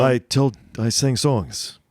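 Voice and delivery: lightly imitated New York accent; Tony Curtis's accent. Co-host mimicking the actor's lines, light New York accent. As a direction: put on a touch of New York. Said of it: "you can't get that accent, that New York accent".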